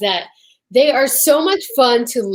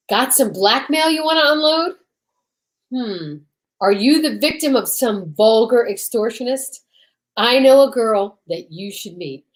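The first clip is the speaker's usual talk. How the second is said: radio promo read; 2 semitones higher than usual. Acted. Host opening the radio play as an old-time promo. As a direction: sell it like a thirties radio ad.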